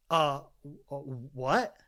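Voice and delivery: halting, stammered confusion; taken aback. Retold or imitated. Young man answering a woman's rude question, taken aback. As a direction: stumble into a bewildered question.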